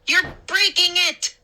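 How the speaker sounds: high, loud alarmed shriek. A narrator's reading. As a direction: shriek in panic. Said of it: "Mindy shrieked".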